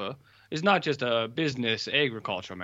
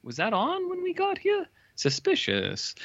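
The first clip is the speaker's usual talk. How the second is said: mock dramatic suspicion. Characters grow suspicious.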